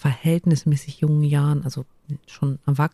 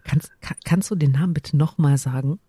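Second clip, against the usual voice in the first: breaking up while holding back a giggle; stifled giggles. Real, not acted. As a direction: ask while trying not to laugh. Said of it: "ich versuche nicht zu kichern".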